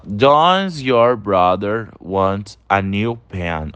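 slow model of the right form, "Does" at the start; correct version. Shown as a demonstration. Teacher giving students the right form, slow and clear. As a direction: read the correct form out slowly. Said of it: "A gente fala".

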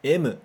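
"M" said as emu, katakana style; Japanese M. Shown as a demonstration. Teacher modelling Japanese "M" for students to repeat. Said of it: "Mais uma vez".

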